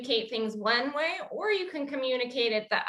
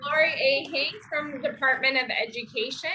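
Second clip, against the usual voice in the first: bright, loud winner reveal; hyped giveaway announcement; 3 semitones higher, 3 dB louder than usual. Acted. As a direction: cheer the winner's name. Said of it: "select a winner".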